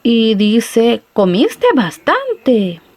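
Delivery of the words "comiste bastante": "Comiste bastante" very slow, falling on "bastante" in amazement; surprised exclamation. Shown as a demonstration. Person amazed after a huge meal, slow surprised exclamation. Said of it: "está muy sorprendida esta persona".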